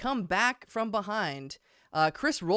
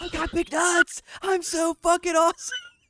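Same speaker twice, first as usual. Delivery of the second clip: high-pitched mix of yelling and whispering; 11 semitones higher, 4 dB louder than usual. Calling out a friend's message, imitating Troy's half-yelled whisper. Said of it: "he's like half yelling, half whispering".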